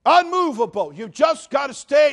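loud, high, slow shouted sermon; preacher shouting steadfast; full-force preaching. Acted. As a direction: thunder it to the church.

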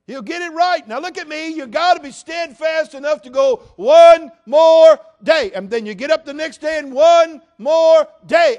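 preacher shouting steadfast; full-force preaching. Acted. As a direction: thunder it to the church.

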